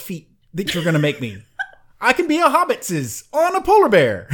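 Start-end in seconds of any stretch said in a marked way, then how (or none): 2.0-4.3 Gollum-style hobbitses. Pretend. Jokes about hobbit feet.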